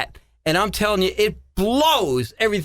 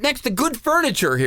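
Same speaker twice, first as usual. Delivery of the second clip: higher-pitched comic protest; mock scolding; 6 semitones higher than usual. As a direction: protest like an exasperated grandparent. Retells scolding grandkids over slime.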